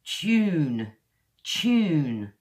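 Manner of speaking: "tune" twice as "choon", drawn out and falling; modern British "choon". Shown as a demonstration. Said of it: "the way I would say it is".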